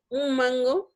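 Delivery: "un mango" run together as "um mango". Shown as a demonstration. Teacher showing spoken assimilation, saying "un mango" with an M for the N. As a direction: close the lips early so the N of "un" becomes M before "mango". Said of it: "la estoy pronunciando como una M".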